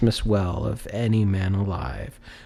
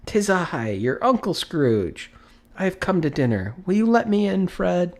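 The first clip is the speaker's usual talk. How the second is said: put-on hopeful old uncle; 9 semitones higher than usual. Scrooge asks his nephew to let him in, hopeful. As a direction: ask to be let in, humbly.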